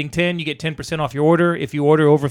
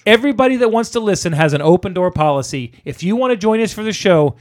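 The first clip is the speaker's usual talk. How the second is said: wrestling promo; 2 semitones higher, 4 dB louder than usual. Acted. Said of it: "he just cut a full wrestling promo".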